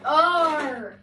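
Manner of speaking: loud gruff exclamation like a pirate; pirate-like shout. Real, not acted. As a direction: blurt it out like a pirate. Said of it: "You sound like a pirate".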